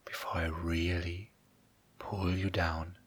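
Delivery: soft close whisper, slowing down; right in your ear. Acted. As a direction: breathe the words into their ear. Starts the trance induction.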